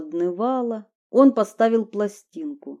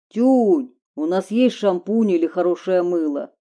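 calling from another room; 4 dB louder than usual. Acted. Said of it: "крикнул он из ванной".

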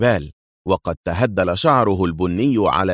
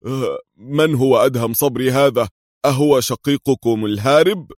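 higher, louder mock-innocent voice; feigned innocence; 5 semitones higher, 3 dB louder than usual. A narrator's reading. Qadri feigning ignorance to his captors, mock innocent. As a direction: play dumb, all wide-eyed. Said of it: "تظاهر قدري بالبراءة وعدم الفهم".

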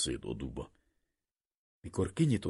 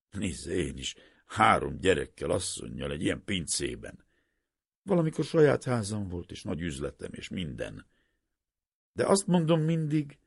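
an earnest, raised-voice merchant urging a despairing man; merchant pleading; 4 semitones higher, 8 dB louder than usual. A narrator's reading. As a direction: talk him out of it with rough insistence. Merchant lectures the professor.

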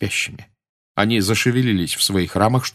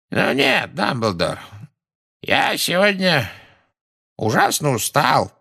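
slow ominous raspy drawl; 6 semitones higher, slower than usual. A narrator's reading. Phineas refuses, weary.

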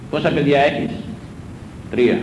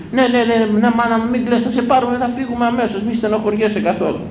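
higher, cooing mock mother soothing her child; a hint of a fussing, pampering mother; doting mother; 6 semitones higher than usual. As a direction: imitate an overindulgent mother fussing. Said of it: "Όταν έβλεπαν κανένα να κλαίει".

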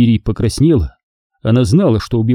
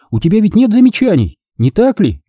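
kindly, higher-pitched check; light, benevolent questioning; friendly; 9 semitones higher than usual. A narrator's reading. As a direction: ask it amiably. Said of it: "спросила она доброжелательным голосом".

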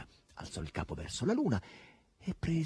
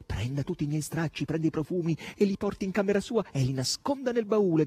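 raised, higher-pitched orders; moderate shout; 7 semitones higher, 3 dB louder than usual. A narrator's reading. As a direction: call out orders without full force. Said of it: "gridava Margherita".

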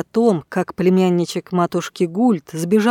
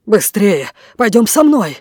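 out of breath; 4 dB louder than usual. Acted. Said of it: "задыхаясь, выпалил Бирт".

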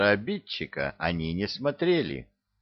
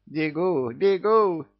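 high, rising flustered cries; fussy lament; 9 semitones higher, 4 dB louder, slower than usual. Acted. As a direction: hurry and fuss like a startled old housewife. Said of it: "запричитала". (причитая, суетливо)

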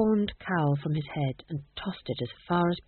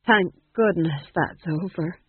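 relieved sigh; slower than usual. Acted. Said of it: "he said".

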